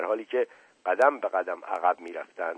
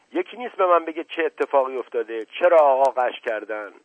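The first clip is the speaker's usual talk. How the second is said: exasperated shout; 3 semitones higher, 7 dB louder than usual. A narrator's reading. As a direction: shout the questions at everyone. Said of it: "فریاد زد".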